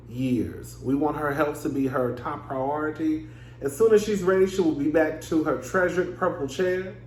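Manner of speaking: measured, formal announcement read; reading a statement aloud. Real, not acted. Host reads what the announcement was, in a formal reading tone. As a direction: read it out like an official press statement.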